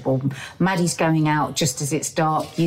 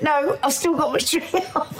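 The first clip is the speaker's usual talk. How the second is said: defiant reply; 10 semitones higher than usual. Retold or imitated. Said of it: "I went".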